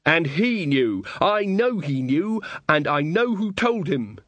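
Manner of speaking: upset bride through a door; through a wall. Acted. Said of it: "the muffled voice behind the door".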